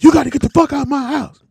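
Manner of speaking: angry yell. Retold or imitated. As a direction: throw him out furious. Stepdad yelling quoted.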